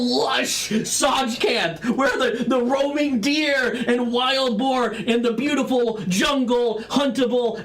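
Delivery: sarcastic exasperation, stretching the scenic words; angry. Acted. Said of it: "Orak is mad at you".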